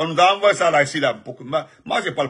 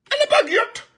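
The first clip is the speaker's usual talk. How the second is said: very high put-on voice parroting the claim; squeaky mocking parrot; mocking squeaky repeat. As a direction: mimic them in a silly high voice.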